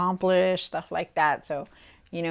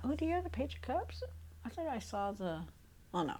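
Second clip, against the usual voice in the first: surprised; 4 semitones higher, 11 dB quieter, faster than usual. Real, not acted. Surprised at the missing card.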